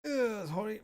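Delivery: groaning mid-stretch; strained groan while stretching. Real, not acted. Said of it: "I'm stretching a bit".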